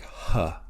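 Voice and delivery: "huh" with an audible H breath at the start; rough breathing. Shown as a demonstration. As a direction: push out the H in "huh". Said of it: "indicates the addition of an H".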